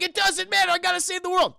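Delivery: high, loud heroic voice; heroic declaration. Retold or imitated. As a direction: declare it like a self-sacrificing hero. Tony heroic sacrifice.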